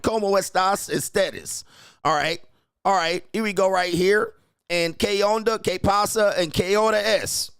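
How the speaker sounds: high, loud, hammed-up Spanish phrases; mock Spanish interpreter. Interpreter turning to the player, hammed-up high Spanish. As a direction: ham up a clueless interpreter rattling off Spanish.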